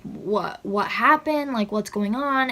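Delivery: voicing her brother's shocked questions; alarmed questions. Brother woken by the call, a retold panicked asking. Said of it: "screamed it".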